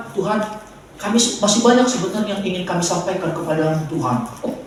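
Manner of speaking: mock a lazy pray-er lightly; lazy prayer. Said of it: "doa orang malas sebetulnya". (meniru doa orang malas dengan lembut)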